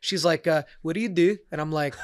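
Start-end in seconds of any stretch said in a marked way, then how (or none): 0.8-1.4 lightly attempted Scottish accent. Scottish woman questioning the comic in a bar, lightly imitated Scottish accent. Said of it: "my best Scottish accent".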